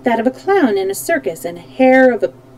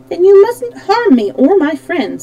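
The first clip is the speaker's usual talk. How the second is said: high, louder friendly appeal; friendly request in a raised voice; 9 semitones higher, 6 dB louder than usual. A narrator's reading. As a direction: reason cheerily with a crowd. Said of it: "said the Shaggy Man friendly".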